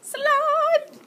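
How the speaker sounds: bright, loud, high hello to the class; excited greeting. Real, not acted. Greeting the listening class, eager and loud.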